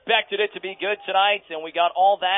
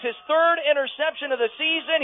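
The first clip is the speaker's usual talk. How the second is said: excited; 9 semitones higher than usual. Acted. Same phrase said twice, two ways.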